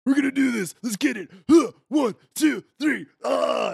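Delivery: high, pumped-up gym bro chant; hyped-up bro voice. Acted. DM voices hyped twin brothers.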